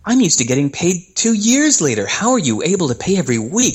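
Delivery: imitating a stunned musician; incredulous customer.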